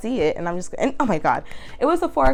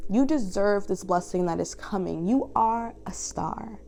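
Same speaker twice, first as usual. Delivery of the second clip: slow soft reassurance; 3 dB quieter, slower than usual. Real, not acted. Reader reassures viewers of blessings.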